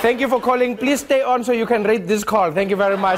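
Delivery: high, laughing automated voice; mock recorded message; hotline recording. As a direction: sign off like a phone menu.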